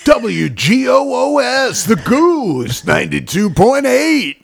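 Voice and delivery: hammy high radio jingle voice; seventies radio DJ. Pretend. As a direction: announce the station call sign. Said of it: "radio station from the seventies".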